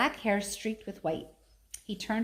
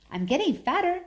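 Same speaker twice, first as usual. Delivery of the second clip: put-on stiff, defensive little girl answer, a bit higher; stiff reply; 9 semitones higher, 4 dB louder than usual. A narrator's reading. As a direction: say it stiffly, holding your ground. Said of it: "in what she knew was her stiffest way".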